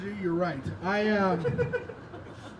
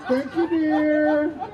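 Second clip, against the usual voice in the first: drawn out slowly, pitched higher, louder; mock sweet thanks; 6 semitones higher, 4 dB louder, much slower than usual. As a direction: coo a slow, exaggerated thank-you at her. Thanking the waitress Amy again.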